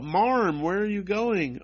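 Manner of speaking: high mock calling after someone; imitated girls' yell. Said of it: "the girls yell out".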